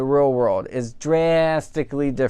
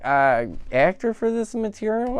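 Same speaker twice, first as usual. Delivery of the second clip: mock incredulous; 8 semitones higher than usual. Real, not acted. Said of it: "reviewer questioning Will Ferrell".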